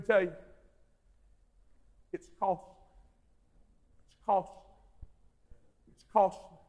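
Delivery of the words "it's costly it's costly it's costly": soft, low, repeated; solemn hushed warning; quiet emphasis. Acted. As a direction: let it sink in gently.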